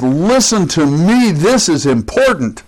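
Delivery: imitating an emphatic call for attention; mildly proclaimed, as if in capital letters; capital-letters emphasis. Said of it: "everything she spoke was capital letters".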